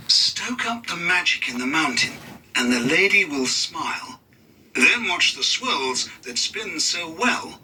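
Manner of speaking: gentle storybook verse; recited. A narrator's reading. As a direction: chant it like a spell. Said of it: "Mister Conductor recited".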